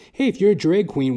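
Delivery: usual speaking voice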